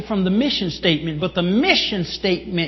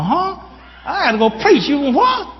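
higher, incredulous "Huh?"; startled disbelief; 5 semitones higher than usual. Retold or imitated. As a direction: act caught off guard by an order. Pastor startled by God's instruction.

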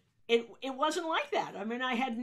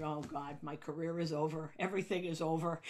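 softer, lower inner despair; despairing mutter; 4 semitones lower, 5 dB quieter than usual. Retold or imitated. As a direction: mutter to yourself that it's all over. Panic hearing yelling.

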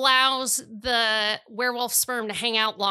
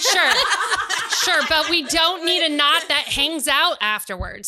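laughing; 5 semitones higher, 3 dB louder than usual. Real, not acted. Laughing disgust.

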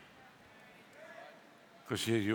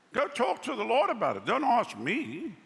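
emphatic raised voice; 9 semitones higher, 4 dB louder than usual. Real, not acted. Preacher exclaims at congregation.

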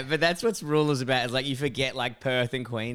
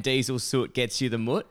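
quoting a sticker. Retold or imitated. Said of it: "they give you the P plates and".

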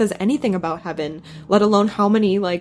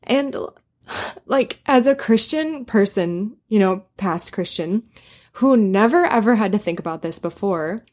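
choked up; 2 semitones higher than usual. Real, not acted. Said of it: "sorry, I'm crying".

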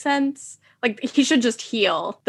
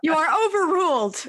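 laughing mock ruling; 7 semitones higher than usual. Repeats ruling through laughter.

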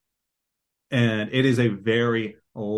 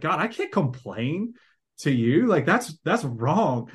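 higher-pitched, troubled protest to God; retold guilty protest; 6 semitones higher than usual. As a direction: act out feeling bad about complaining. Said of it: "I always felt bad".

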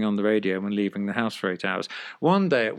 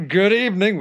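higher and louder, a showy "Good evening" to warn someone; loud fake greeting; 8 semitones higher, 7 dB louder than usual. Flatmate calls out loudly to warn the girlfriend. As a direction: announce your arrival loudly on purpose. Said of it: "which I never usually say".

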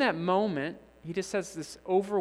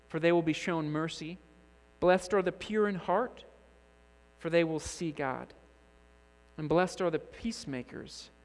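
measured, solemn reading of the Beatitudes; solemn scripture reading. Acted. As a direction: read each blessing with reverent pauses.

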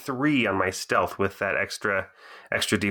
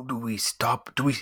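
character voice attempting a stage whisper; stage-whisper it in a put-on voice; hushed character voice, not quite whispered; attempted stage whisper. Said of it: "trying to stage whisper it with a voice".

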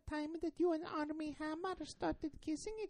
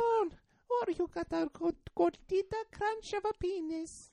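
Italian rodent voice. Pretend. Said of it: "I sound like an Italian rodent".

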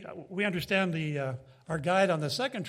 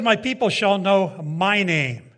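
solemn divine proclamation; 7 dB louder than usual. Acted. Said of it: "Yahweh says".

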